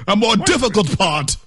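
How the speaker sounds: mock British. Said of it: "That's such a British thing".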